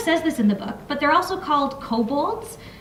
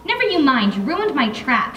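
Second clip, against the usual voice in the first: accusing; 3 semitones higher, 3 dB louder than usual. Acted. Fairy to Griff, loud accusing retort. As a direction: throw the blame at him. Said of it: "she answered accusingly".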